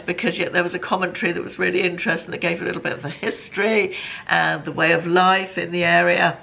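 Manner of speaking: hoarse, grating voice going; losing voice. Real, not acted. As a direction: speak through a hoarse, failing voice. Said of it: "I'm losing my voice".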